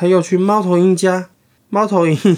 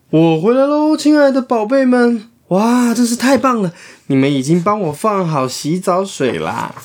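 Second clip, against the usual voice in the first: 高兴的鼹鼠爸爸; 5 semitones higher than usual. Acted. 鼹鼠爸爸以为到家.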